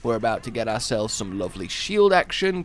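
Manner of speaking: ordinary talk, nothing marked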